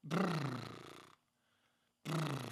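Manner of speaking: soft brrr with the lips; lip trill. Shown as a demonstration. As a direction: loose lip buzz. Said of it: "So do that first".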